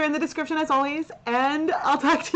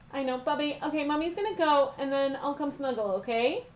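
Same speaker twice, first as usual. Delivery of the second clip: soothing; 3 semitones higher, 5 dB quieter than usual. Real, not acted. Soothing dog before leaving.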